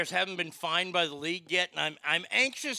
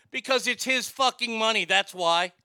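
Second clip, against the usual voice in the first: indignant; 4 semitones higher, 7 dB louder than usual. Real, not acted. Answering critics, rising anger.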